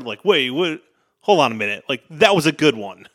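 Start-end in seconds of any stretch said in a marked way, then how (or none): 0.2-1.8 surprised. Retold or imitated. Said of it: "take me off guard".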